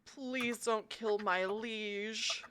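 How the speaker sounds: very slow, soft and sorrowful; mournful, hushed plea for mercy; sad horse's plea. Acted. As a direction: beg softly, drawing out each word. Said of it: "looks at Saga really sadly and says".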